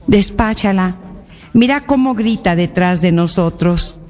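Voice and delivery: measured scripture reading, phrase by phrase with pauses; solemn Gospel reading. Acted. Reads the Gospel aloud. (lectura solemne del Evangelio)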